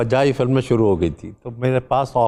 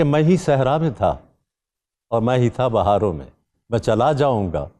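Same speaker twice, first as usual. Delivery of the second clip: measured verse recitation with pauses between phrases; poetry recital. Acted. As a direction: recite your couplet phrase by phrase. Recites his own couplet.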